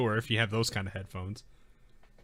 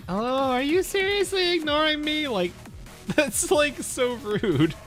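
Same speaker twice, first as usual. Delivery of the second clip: put-on high bubbly valley girl whine; 14 semitones higher, 4 dB louder, slower than usual. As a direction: play the spoiled valley girl. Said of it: "she has the Valley Girl voice".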